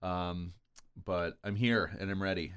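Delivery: stuffy nose from a cold; congested voice. Real, not acted. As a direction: talk through a blocked nose and sore throat. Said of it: "I may sound a little congested".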